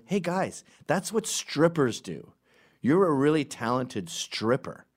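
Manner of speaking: lightly voiced innocent foreigner, slow; a hint of a clueless tourist; mock naive foreigner. To subway dancers, a slow mock-innocent foreigner. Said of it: "you become a foreigner".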